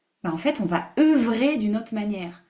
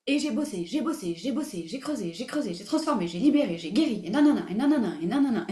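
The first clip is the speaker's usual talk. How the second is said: mock laborious listing; faster than usual. Lists past toil in chanting repetition.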